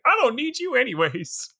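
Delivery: lightly voiced sulky teen; mock teenage sulk; a touch of petulant pout; pouty teenager. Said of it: "Like a pouty teenager".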